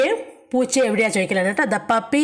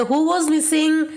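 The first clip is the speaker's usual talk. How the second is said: slow teacher question; 5 semitones higher, much slower than usual. Shown as a demonstration. Teacher asks class in English.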